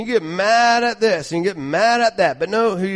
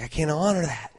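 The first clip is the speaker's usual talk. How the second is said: God speaking; 4 dB quieter than usual. Pretend. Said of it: "It's like".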